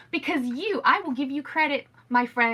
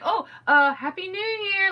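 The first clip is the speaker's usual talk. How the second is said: mock disappointment; 8 semitones higher, 4 dB louder than usual. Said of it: "It was so awkward and sad".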